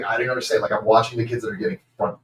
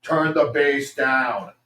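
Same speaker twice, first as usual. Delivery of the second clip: slow, raised mock command; voice through monitors; 5 semitones higher, 4 dB louder, much slower than usual. Sound guy over monitors mid-song, droning command. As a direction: drag out a louder, higher booth order. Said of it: "we hear them in the monitors".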